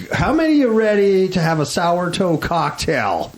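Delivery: hyped-up announcer call. Pretend. Host rallies listeners for the sour toe cocktail, hyped-up call. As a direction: call it out to rouse a crowd. Host hyping up the next story.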